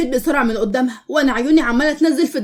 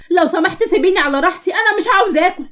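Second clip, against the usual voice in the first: higher-pitched, fed-up plea; upset insistence; 5 semitones higher than usual. Acted. Daughter to mother over eating, upset and insistent. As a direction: push back, wanting to be left alone.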